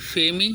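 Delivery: "फेमी" sounded out as written; spelled-out reading. Shown as a demonstration. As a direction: say "फेमी" as a separate spelling chunk. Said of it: "लेकिन पढ़ें क्या?".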